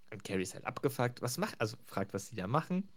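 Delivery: ordinary delivery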